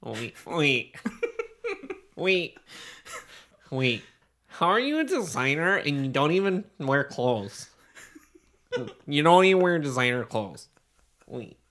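put-on ditzy Valley Girl, laughing. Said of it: "our Valley Girl should talk".

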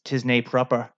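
lightly put-on Scottish accent; mock Scottish catchphrase, accent lightly done; bad Scottish accent. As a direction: try a mild, amateurish Scottish lilt. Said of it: "that's my bad Scottish accent".

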